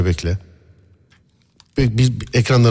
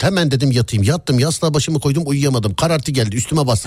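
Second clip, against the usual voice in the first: horror storytelling demo. Shown as a demonstration. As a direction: show how to tell it eerily. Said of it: "Yavaş değil".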